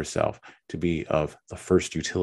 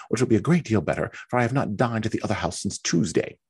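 great exultation; 8 semitones higher, faster than usual. Acted. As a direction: crow it out, triumphant at getting her way. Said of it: "in a tone of great exultation".

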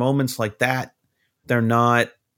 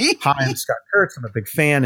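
eager fanboy greeting; 3 semitones higher than usual. Retold or imitated. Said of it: "the dick that goes up and goes".

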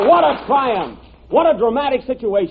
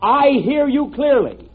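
slow clear dictation; 3 semitones higher, slower than usual. Shown as a demonstration. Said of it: "repeat this sentence".

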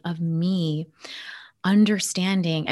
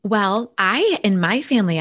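ordinary talk, nothing marked

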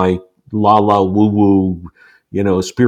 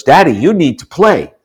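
put-on child voice; 7 semitones higher, 4 dB louder than usual. Three-year-old son voiced.

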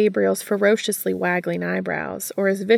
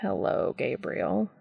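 dry; 4 dB quieter than usual. Acted. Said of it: "Cass said dryly".

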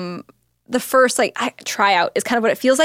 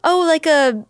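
put-on baby talk; 2 semitones higher than usual. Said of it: "you're saying things like".

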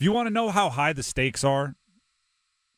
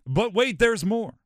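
higher, punchy infomercial pitchman; Billy Mays; 6 semitones higher than usual. Retold or imitated. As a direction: hype it like a TV pitchman. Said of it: "the late, great Billy Mays, the infomercial guy".

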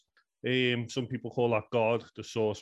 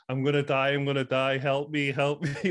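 retold panicky cry for help, somewhat louder; a scared kid begging for help, mildly imitated; mock panicked scream; 3 semitones higher, 4 dB louder than usual. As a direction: replay the childish panic, half-acted. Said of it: "I ran into my mum's bedroom screaming".

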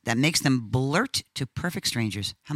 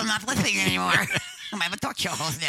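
laughing gratitude; 6 semitones higher than usual. Retold or imitated. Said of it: "I said".

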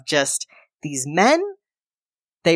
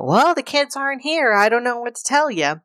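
higher, flat robot-wife voice; robotic Bobby; 9 semitones higher than usual. Retold or imitated. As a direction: play a stiff android neighbour. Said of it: "being all robotic".

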